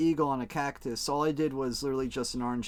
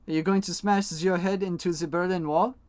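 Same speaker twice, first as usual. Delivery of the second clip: mock German accent, pitched up as a question; bad German accent; 4 semitones higher, 3 dB louder than usual. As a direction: ask it in a hammed-up German accent. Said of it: "Using my shitty German accent".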